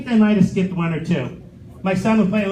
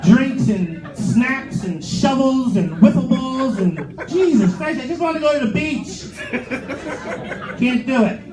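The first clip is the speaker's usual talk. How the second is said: exasperated rant; 4 semitones higher, slower than usual. Real, not acted. Exasperated beach list rant.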